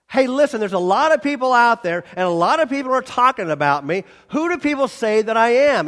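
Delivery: casual Jesus. Acted. Preacher voicing Jesus asking.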